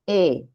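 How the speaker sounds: "Exalumno" as e, xa, lum, no with long pauses; syllable by syllable. Shown as a demonstration. Teacher shows students how to divide it, syllabified. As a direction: split "Exalumno" so the x starts xa. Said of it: "lo que tenemos que hacer es esto".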